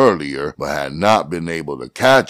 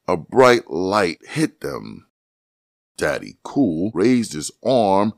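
ordinary delivery, nothing marked

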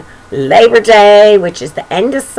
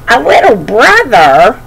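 dismayed cub; 3 dB louder than usual. Acted. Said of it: "says Roly Poly".

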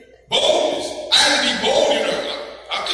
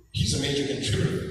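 mock deep voice; 9 semitones lower, 4 dB quieter than usual. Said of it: "he's talking like contributor".

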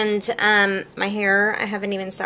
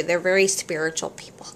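whispering. Real, not acted. Whispered aside.

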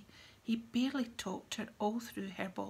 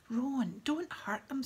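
high, louder pleading squeal; 5 semitones higher, 5 dB louder, slower than usual. A narrator's reading. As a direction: squeal it out in alarm. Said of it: "squealed Hermione".

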